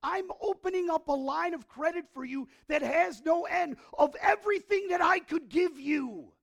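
high, loud ringing promise; preacher voicing God's promise, high and loud; loud preaching. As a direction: proclaim it with full force. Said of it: "He's saying".

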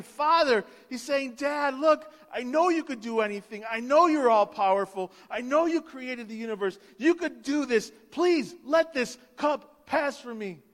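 Jesus begging his Father in the garden, earnest; pleading Jesus. Acted. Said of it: "he's pleading with his Father".

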